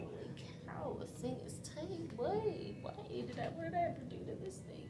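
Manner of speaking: high squeaky yelp of discomfort; pained squeal. Real, not acted. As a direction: squeal as the cuff squeezes. Blood pressure cuff squeezing her arm.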